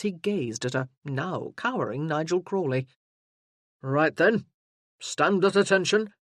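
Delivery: a burly sergeant taking charge; booming soldier arriving in force; gruff sergeant. Acted. Sergeant drills Crawley.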